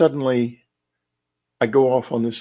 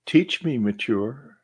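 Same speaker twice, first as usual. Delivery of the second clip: imitated warmth, softening at the end; slower than usual. Recounting own words on a night recording, warm. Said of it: "I say in this very warm voice".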